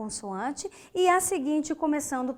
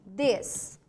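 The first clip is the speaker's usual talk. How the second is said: "des-a-ten-to" split by long pauses; syllable by syllable; 4 semitones lower than usual. Shown as a demonstration. Teacher showing students a faulty split, syllable by syllable. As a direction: say "des-a-ten-to" in four detached pieces. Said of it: "Se eu separasse o desatento assim".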